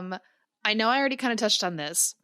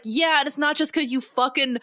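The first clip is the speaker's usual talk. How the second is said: emphatic mock telling-off, louder on the accusation; scolding doctor; 3 semitones higher, 3 dB louder than usual. Doctor giving Brocklehurst what for, scolding. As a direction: let him have it, punching the key words. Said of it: "giving him what for".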